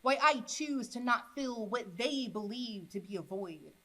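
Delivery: measured spoken-word poetry reading; poem recitation. Acted. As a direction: recite in short phrases, softening at the ends. Recites own poem to audience.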